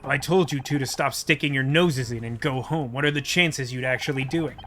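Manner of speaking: exasperated detective, voiced low; weary detective.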